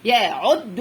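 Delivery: يا, then عد stopped on doubled د; teacher's split reading of يا عد; syllable by syllable. Shown as a demonstration. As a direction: sound out يا عد in separate pieces. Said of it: "خد واحدة من دي طالما وراها شدة".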